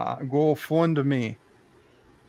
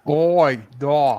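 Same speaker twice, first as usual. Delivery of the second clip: mock Russian accent; 4 dB louder than usual. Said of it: "Do the Russians say oi?".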